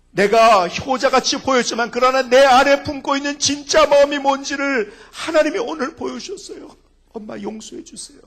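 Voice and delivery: loud, high pleading confession; a son crying out on the phone, loud and high; tearful plea to mother. Retold or imitated. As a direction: beg mother for forgiveness at full voice. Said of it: "울면서".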